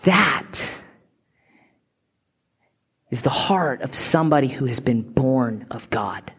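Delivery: hushed whisper. Real, not acted. Whispered point after story.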